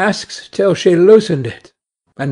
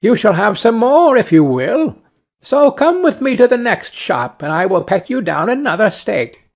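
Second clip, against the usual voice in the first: higher-pitched storybook bird; lightly voiced sparrow, lifted and inviting; a hint of a chirpy bird; obliging sparrow; 6 semitones higher than usual.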